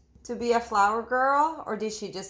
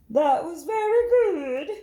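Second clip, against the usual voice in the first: higher, louder bright praise; teacher praise; 8 semitones higher, 6 dB louder than usual. Acted. Miss Hart praising Angela's poem, higher louder. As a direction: praise the child warmly.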